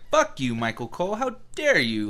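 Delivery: a mock outburst, pitch jumping up on the last words; mock angry rant. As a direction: rant at Michael Cole in mock fury. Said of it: "I was like".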